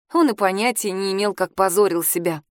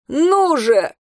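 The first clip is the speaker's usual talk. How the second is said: put-on higher, loud drunken yell; shout; 7 semitones higher, 4 dB louder than usual. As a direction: bark it at the silent crowd. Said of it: "крикнул Коул".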